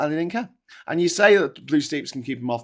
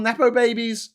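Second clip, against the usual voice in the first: "babies" pressed with scornful emphasis; higher pitch, weight on "babies"; stress on babies; 7 semitones higher, 3 dB louder than usual. Real, not acted. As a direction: lean on the word "babies". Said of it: "Emphasis on baby".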